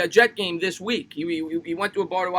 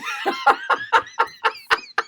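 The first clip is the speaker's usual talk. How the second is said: long, high giggling laugh; helpless high-pitched laughter; real laugh. Real, not acted. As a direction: crack up at the comment. Laughs at viewer's comment.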